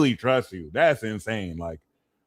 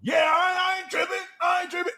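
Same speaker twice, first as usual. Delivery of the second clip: mock dismissive; 5 dB quieter, faster than usual. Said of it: "You know".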